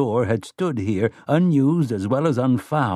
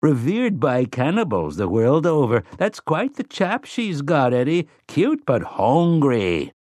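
mellow scholarly tone; 4 semitones higher than usual. Acted. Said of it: "mellow, scholarly tone".

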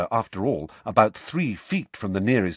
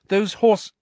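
put-on higher airy girl voice; Luna's voice; 10 semitones higher, 5 dB louder than usual. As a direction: voice Luna, dreamy. Luna appears, dreamy.

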